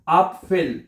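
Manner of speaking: अपफिल said slowly, in two parts, ap-fel; German example word. Shown as a demonstration. Teacher gives beginners an example word, slowly sounded out. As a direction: sound out अपफिल with a clear pf in the middle. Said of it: "आपकी आसानी के लिए एक लफ्ज".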